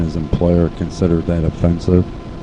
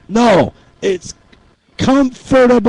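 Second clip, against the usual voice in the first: much higher, squeaky comfortable; squeaky answer; 4 dB louder than usual. Acted. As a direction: pipe up in a tiny high voice with comfortable. Squeaky answer to pronunciation question.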